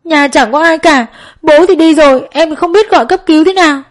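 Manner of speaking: high, crying and helpless; wailing in tears. A narrator's reading. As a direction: sob it out, lost and scared. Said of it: "Trang vẫn khóc bù lu bù loa lên". (giọng khóc nức nở, bất lực)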